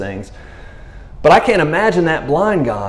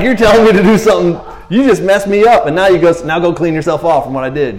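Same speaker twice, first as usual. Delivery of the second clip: mock indignant protest; 3 semitones higher, 4 dB louder than usual. Blind man's indignant protest.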